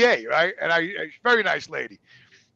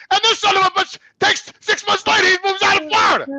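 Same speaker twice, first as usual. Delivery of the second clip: indignant shout; 13 semitones higher, 7 dB louder than usual. Real, not acted. Indignant retelling, raised voice.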